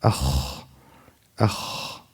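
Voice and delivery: AKH with a soft, sustained breath; unforced, airy KH closing AKH; correct kha. Shown as a demonstration. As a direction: let the KH in AKH flow out lightly. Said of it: "how to pronounce it".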